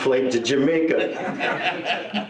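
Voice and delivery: drawn-out laughing Jamaica; dreamy slow laugh. Retold or imitated. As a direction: stretch Jamaica out slowly with a laugh. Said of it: "it's like".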